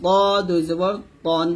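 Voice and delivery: ত and তন with a heavy, rounded t; full-mouthed emphatic t on ত and তন. Shown as a demonstration. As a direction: round ত out heavily to an o. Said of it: "এরকম".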